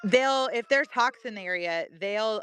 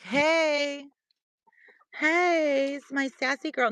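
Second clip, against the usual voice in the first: voicing the goat; 6 semitones higher, slower than usual. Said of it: "She's like".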